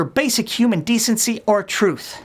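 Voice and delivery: out of breath after a long list; running out of breath. Real, not acted. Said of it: "I'm just out of breath".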